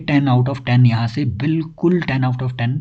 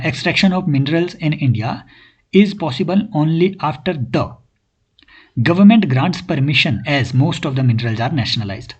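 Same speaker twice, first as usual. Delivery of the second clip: slow read-aloud; much slower than usual. Shown as a demonstration. Teacher reads final sentence aloud.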